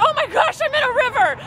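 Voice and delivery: quoting herself. Retold or imitated. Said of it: "and went".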